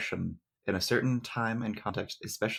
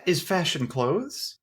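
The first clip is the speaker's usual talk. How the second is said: gentle giant voice; 5 semitones higher than usual. Acted. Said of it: "You sound like a, a gentle giant".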